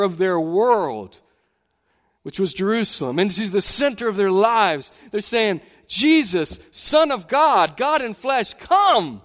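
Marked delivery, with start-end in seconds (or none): 5.9-9.2 high, loud, slow pleading call; crowd shouting. Retold or imitated. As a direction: call out as a crowd welcoming their king. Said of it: "people shouting all of these things".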